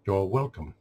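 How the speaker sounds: understated mock-AI courtesy. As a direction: deliver the courtesy evenly, like an AI. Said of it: "trying to get the A I down".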